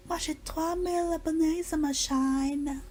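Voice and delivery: high, slow English-accented French. Shown as a demonstration. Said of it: "ça c'est un accent anglais".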